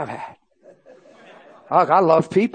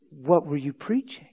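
slow, joyless questioning; slow mock-stern question; imitated stern questioner. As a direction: imitate a humorless interrogator, drawn out. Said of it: "I mean, it was like that".

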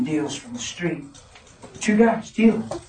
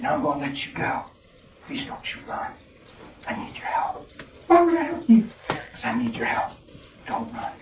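soft pleading; 6 dB quieter than usual. Retold or imitated. Pleading softly with the girl.

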